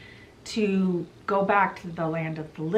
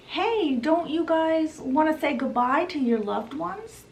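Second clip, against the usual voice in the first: lightly voiced taunt, pitched up; a sing-song lure, rising at the end; taunting Hades; 7 semitones higher than usual. Hades calls to the departing boat, lightly taunting.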